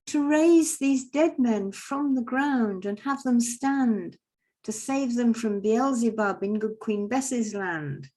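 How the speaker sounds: high, loud, very slow stately appeal; Father Christmas pleading. Retold or imitated. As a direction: proclaim it slowly like a grand old peacemaker. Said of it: "And Father Christmas goes".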